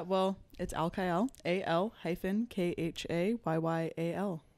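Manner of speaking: lightly put-on radio host voice. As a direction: spell it out like a radio announcer. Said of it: "doing the fucking radio host voice so hard".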